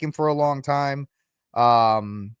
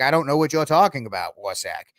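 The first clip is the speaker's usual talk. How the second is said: mock bad movie accent, quick then dropping away; Kevin Costner. Costner brushing off a reporter's question, in a mock bad accent. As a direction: lightly imitate a Mayor Quimby accent. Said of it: "he has the worst accent".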